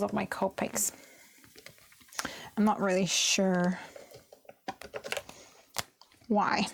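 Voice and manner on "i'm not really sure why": whispered aside; unvoiced murmur while colouring. Real, not acted. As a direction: whisper it to yourself.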